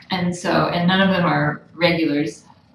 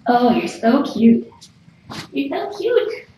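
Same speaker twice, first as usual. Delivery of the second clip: cooing; 3 semitones higher, 4 dB louder than usual. Real, not acted. Baby talk to kitten.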